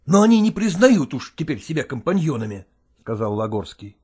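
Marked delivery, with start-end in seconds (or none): none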